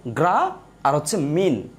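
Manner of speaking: গ্রা and মিন said slowly as separate syllables; teacher spelling out syllables; syllables apart. Shown as a demonstration. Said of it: "কিভাবে?".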